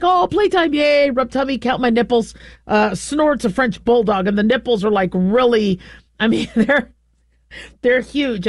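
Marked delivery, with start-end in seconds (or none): 0.0-2.3 happy dog voice. Retold or imitated. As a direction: bounce like an oblivious puppy. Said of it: "the dog's like".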